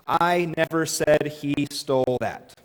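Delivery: "I" leaned on, slow and deliberate; weight the word "I"; slow read with "I" stressed. Shown as a demonstration. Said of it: "is that one sentence Or is that five sentences".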